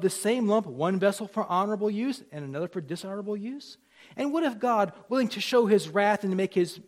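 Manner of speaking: mildly emphatic, lifted reading voice; scripture reading. Acted. Preacher reads Paul's challenge to the congregation, emphatic scripture reading. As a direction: read the passage out with force.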